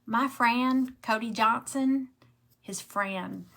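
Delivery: lightly imitating her little son; a hint of a little Southern boy; child quoted. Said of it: "he would say".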